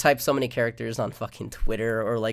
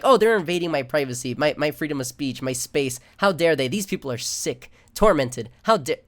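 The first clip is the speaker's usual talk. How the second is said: mock outraged whiner; 2 semitones higher, 4 dB louder than usual. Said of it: "they're like".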